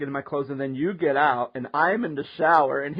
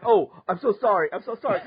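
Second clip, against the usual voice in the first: mock panicked, higher-pitched apologizing; hurried mock contrition; flustered apology; 3 semitones higher, faster than usual. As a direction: imitate someone caught out and apologizing. Acting out friend's flustered apology.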